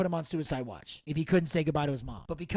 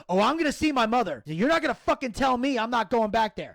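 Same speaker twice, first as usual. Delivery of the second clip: indignant, higher-pitched retort; retold angry outburst; 5 semitones higher, 4 dB louder than usual. Upset son insisting to a nurse he will see his mother, retold angry. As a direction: defy the nurse, raised pitch but not yelling. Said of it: "Buff is losing shit".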